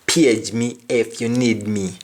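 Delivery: Jamaican English, Page stressed; Jamaican phrase. Shown as a demonstration. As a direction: repeat Page me in Jamaican style. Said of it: "Meaning, call me if you need me".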